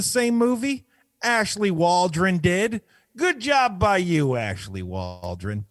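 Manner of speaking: announcer-like statement reading; deliberate, emphatic script read; prepared statement read-out. Acted.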